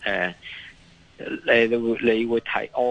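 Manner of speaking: ordinary delivery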